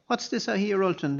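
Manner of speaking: loud, high angry shout; abbot shouting. A narrator's reading. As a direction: bellow it at him. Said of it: "the abbot was shouting".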